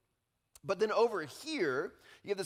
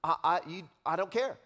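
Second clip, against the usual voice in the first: mock dismissive; 4 dB louder, faster than usual. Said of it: "we're like".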